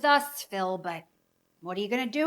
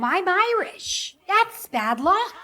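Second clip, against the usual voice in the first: superstitious mom; 9 semitones higher, slower than usual. Acted.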